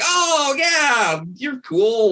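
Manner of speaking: high, easygoing welcome; lightly voiced laid-back guard; breezy guard. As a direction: wave him right through. Cousin waves monk in.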